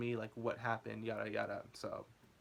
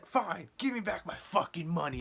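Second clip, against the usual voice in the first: a touch higher, snippy demand; snatch your money back in a huff; angry homeless guy; 5 semitones higher, 4 dB louder than usual. Retold or imitated. Denied service, lightly voiced angry homeless guy.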